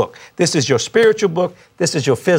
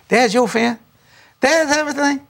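amazed neighbor; 10 semitones higher than usual. Retold or imitated.

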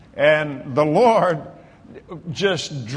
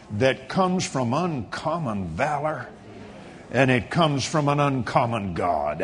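lower, deliberate pastoral blessing; low-pitched solemn prayer with measured pauses; hushed prayer; 6 semitones lower, 3 dB quieter than usual. Real, not acted. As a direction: bring the prayer down low and weighty. Prayer drops lower and softer.

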